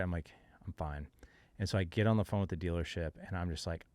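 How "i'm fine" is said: terse. Retold or imitated. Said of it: "my blood is starting to boil".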